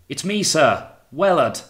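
high, loud shout into wind; screamed reply. A narrator's reading. Young volunteer answering the captain, screaming into the wind. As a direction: shout to be heard over the gale. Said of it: "screamed into the wind to make himself heard".

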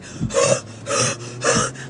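breathy choking gasp. Retold or imitated. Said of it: "I was like".

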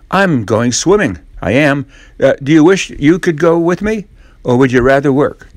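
taunting Ben. Acted. Ben taunting Tom about swimming, cheeky boyish voice. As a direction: rub it in playfully.

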